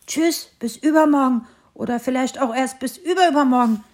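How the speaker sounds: lightly voiced little hare calling out cheerfully; a hint of a bouncy young hare, calling bye; bunny calling goodbye. Hare calling goodbye to the little tree, lightly voiced. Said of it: "rief das Häschen".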